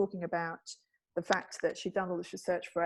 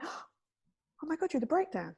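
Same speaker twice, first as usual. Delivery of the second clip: slow high gasping shock; gasped shock; 7 semitones higher, slower than usual. Retold or imitated. Audience reacting to the breakdown reveal, slow shocked gasp. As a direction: gasp and draw it out.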